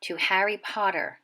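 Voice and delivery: slow, whispered toast; a reverent hushed toast. A narrator's reading. Secret well-wishers toast the baby, slow and hushed. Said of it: "saying in hushed voices".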